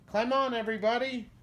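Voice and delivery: high, loud call to everyone; shouting. Acted. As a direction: call them all aboard. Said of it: "shouted Duck".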